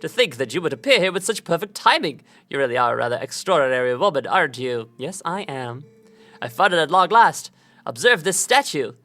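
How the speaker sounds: lightly voiced nerdy scholar; a hint of a fussy bookish nerd. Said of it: "I have to do a nerd voice".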